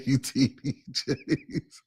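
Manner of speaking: slow drawn-out preacher voice; lightly voiced mock preacher; preacher impression. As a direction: intone it like a big-stage preacher. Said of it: "he said".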